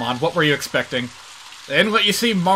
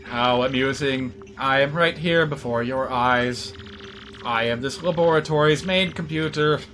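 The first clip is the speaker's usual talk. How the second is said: robot voice; 3 semitones lower, 4 dB quieter than usual. Acted. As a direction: speak like a calm, polite machine. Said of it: "we have an actual computer character in this game".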